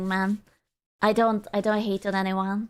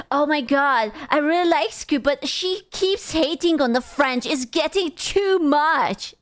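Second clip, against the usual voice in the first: mock whiny commenter; 2 semitones higher than usual. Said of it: "Someone was yapping on YouTube".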